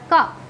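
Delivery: का sounded from the throat. Shown as a demonstration. Teacher has learners feel the throat, का said from there. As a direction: say का alone, placed at the throat. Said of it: "यहाँ कंठ से आवाज़".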